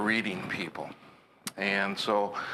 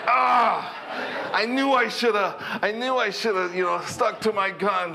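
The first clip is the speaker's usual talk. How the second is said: much higher and louder, laughing; laughing rueful driver; 9 semitones higher, 4 dB louder than usual. Retold or imitated. Driver caught out by the trooper's joke, laughing high and loud. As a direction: burst out laughing at yourself for giving in.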